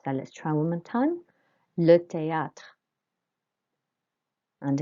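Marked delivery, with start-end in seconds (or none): 1.8-2.6 THÉÂTRE with é as "ay"; careful French pronunciation. Shown as a demonstration. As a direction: model THÉÂTRE with an open "ah" for â. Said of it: "A with the accent on the top makes".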